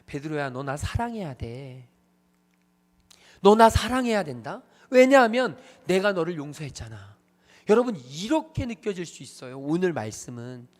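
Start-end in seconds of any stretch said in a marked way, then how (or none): 0.0-1.9 slow, low-pitched demand; quiet insistent demand, slow; soft, pressing demand; demanding Jesus, low. Retold or imitated. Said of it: "잘못 이해하면 이럴 수 있습니다". 3.4-7.2 loud insistent demand; forceful demand; demanding Jesus, louder. Retold or imitated. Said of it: "잘못 이해하면 이럴 수 있습니다".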